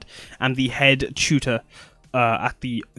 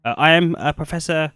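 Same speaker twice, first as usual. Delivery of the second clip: nervous, stammering character voice; stage fright. Acted. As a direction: stumble over the words nervously. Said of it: "sorry, I'm nervous".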